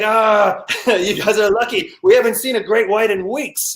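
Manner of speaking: hint at a South African skipper; bad South African accent. Captain telling passengers they're lucky, attempted South African accent. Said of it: "can't do a South African accent".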